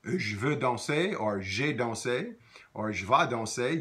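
"danser" with a clear A ending, slowly; teacher's French example; slow French demo. Shown as a demonstration. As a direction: model the A sound slowly. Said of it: "So you would hear".

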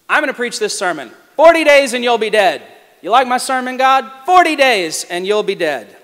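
mock-smug preacher, half shouted; petulant, loud and fast. Jonah mocking God with his short sermon, loud and bratty. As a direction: fling it out like a sulky teen showing off. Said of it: "Jonah is a little bit like a petulant teenager".

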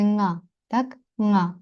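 «nga» begun with a velar nasal ng; isolated velar nasal demonstration; back-tongue ng. Shown as a demonstration. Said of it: "задньоязиковий".

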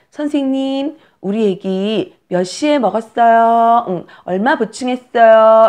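high, sweet drawn-out questions; mother asking nurse. Pretend. New mother phoning the nursery about feeding, high polite questioning. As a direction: ask politely in a high, stretched phone voice. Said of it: "이렇게 물어봐".

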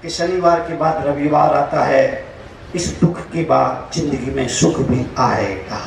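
low, settled consoling voice; gentle reassurance. Real, not acted. Preacher promising joy after sorrow, reassuring. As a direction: drop low and reassure them.

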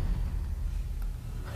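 startled gasp. Real, not acted. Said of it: "That scared me".

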